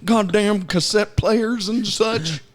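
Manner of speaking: put-on slow cranky old man; grumpy old man. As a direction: grumble like an old coot.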